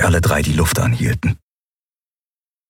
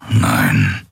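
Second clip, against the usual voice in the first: very low grumble; deep, gruff refusal; Keru; 11 semitones lower than usual. A narrator's reading. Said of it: "brummte er".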